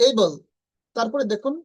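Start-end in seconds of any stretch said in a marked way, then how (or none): 0.1-0.3 "এবল" said as ey-bal; correct pronunciation. Shown as a demonstration. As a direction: glide from e to i opening "এবল". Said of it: "not এবল". ("এবল" এইবল-এর মতো)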